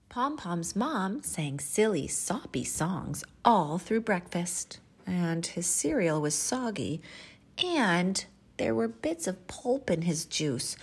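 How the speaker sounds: animated picture-book reading with measured pauses; expressive children's storyteller; storytime narration. Acted. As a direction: read it to little children, savoring key words.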